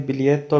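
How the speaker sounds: بلیتو said "bee-LYET-to", no hard g; silent G. Shown as a demonstration. Teacher reads the Italian word for ticket, silent G. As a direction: glide "ly" in بلیتو, G unheard. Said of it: "بلیتو میں بھی جی silent ہے".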